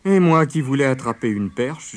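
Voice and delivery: high, loud mock-woeful wail; moaning fox. A narrator's reading. Fox lamenting his lost fishing, moaning. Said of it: "gémit Père Renard".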